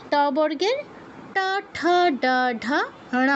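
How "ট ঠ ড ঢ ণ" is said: ট ঠ ড ঢ ণ in an even recitation; retroflex letter drill. Shown as a demonstration. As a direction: curl the tongue back for ট ঠ ড ঢ ণ. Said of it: "আমি আবার করে দিচ্ছি". (ট বর্গ, মূর্ধন্য উচ্চারণে আবৃত্তি)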